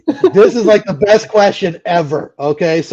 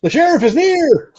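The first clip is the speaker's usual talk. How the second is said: high, slow puppet warning; Muppet voice; 10 semitones higher than usual. Acted. Host voicing a Blazing Saddles line as a Muppet. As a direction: draw it out like a squeaky Muppet.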